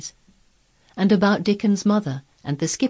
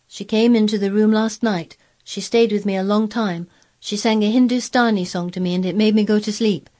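put-on higher-pitched child arguing back; emphatic, raised boy's voice; insistent boy Colin; 5 semitones higher, 4 dB louder than usual. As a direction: correct the grown-ups firmly.

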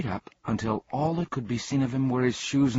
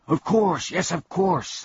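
high, louder eager shout; Canby shouting in glee at his name; delighted shout; 10 semitones higher, 5 dB louder than usual. Acted. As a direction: burst out with sudden joy. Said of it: "the man shouted".

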